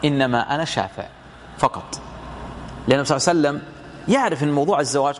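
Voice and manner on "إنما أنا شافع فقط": lower-pitched, settled retold answer; gentle reassurance. Prophet tells the woman he is only interceding, gentle reassurance. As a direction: drop the pitch to reassure, no pressure.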